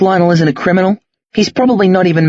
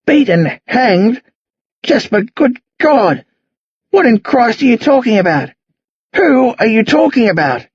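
raised voice; 6 semitones higher than usual. Acted. Old man answering a murder accusation, raised appalled voice. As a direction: draw out the appalled questions, pitched up. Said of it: "They've both raised their voices".

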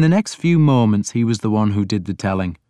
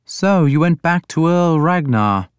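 lightly voiced lord, pitched higher; questioning lord; 7 semitones higher than usual. A narrator's reading. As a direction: probe with a higher voice. Alfred's dialogue in narration.

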